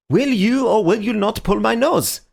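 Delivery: high, pressing exasperation; exasperated demand, pitched high. A narrator's reading. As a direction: demand it, out of patience. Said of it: "said the Marquis in exasperation".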